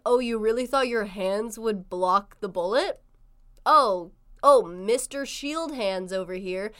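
teasing put-down, drawn out at the end; mock taunting. Friend mocks dying dreamer's shield hands, mock taunting. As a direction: imitate a friend making fun. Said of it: "you started making fun of me".

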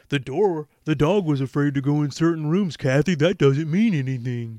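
loud, high, hammed-up protest; mock exasperation. Husband dismissing his wife's worry about the dog, mock exasperated. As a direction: argue it loudly, as if it were obvious. Reader mocks character's dismissive excuse.

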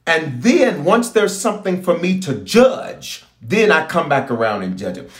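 slow, weighty divine warning; voicing God slowly. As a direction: speak as the Lord, drawing it out. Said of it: "He says".

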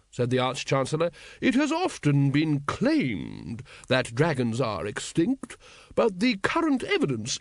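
put-on high, slow old wizard voice; an old don waffling grandly; pompous old wizard. Old wizard lecturing the guild leaders, high and slow.

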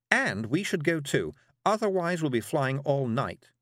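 lightly voiced witch urging departure; brisk-minded witch, urging. Miss Level urges leaving before night, gently insistent.

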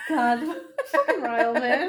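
loud groan breaking into laughter; laughing exasperation. Real, not acted. Co-host reacts to Ryle in the story, laughing exasperation. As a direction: curse the character through your laughter.

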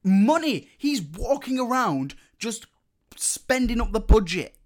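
high-pitched, worked-up protest; exasperated rant. Real, not acted. Speaker complaining to co-host about a useless monkey character, exasperated.

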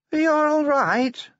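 high, slow comforting dwarf voice; Cheery the dwarf. A narrator's reading. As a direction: soothe her slowly in a high voice.

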